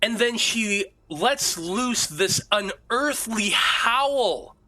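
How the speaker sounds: dramatic scene setting with long suspenseful pauses; game master's narration. A narrator's reading. Game master describes Irina's agony to players, suspenseful narration. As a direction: draw out the eerie scene, phrase by phrase.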